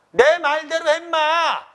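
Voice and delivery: high, loud, drawn-out acted shout; great anger. Uncle overruling his nephew, angry shout. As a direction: stretch it out in a loud angry yell. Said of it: "위진이 크게 놓아여 말하기를".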